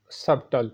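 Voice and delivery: सबटल with the b sounded, sub-tal; wrong pronunciation. Shown as a demonstration. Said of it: "जो कि गलत पढ़ा जाता है".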